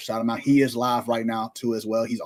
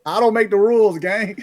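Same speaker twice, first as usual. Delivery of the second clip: defiant retort; 7 semitones higher, 6 dB louder than usual. Real, not acted.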